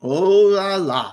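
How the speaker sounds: slow, drawn-out oh la la; french chef. Pretend. Savouring the lobster and crab buffet.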